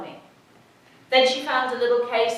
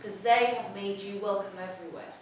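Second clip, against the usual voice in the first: inner voice; 2 semitones lower, 5 dB quieter than usual. Retold or imitated. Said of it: "a voice in my head".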